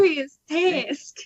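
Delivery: slow, overstressed "dubious task"; "dubious task" drawn out, playfully misstressed; exaggerated odd emphasis. Shown as a demonstration. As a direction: stretch out "dubious task" with a laugh. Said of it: "put the emphasis on the wrong syllables".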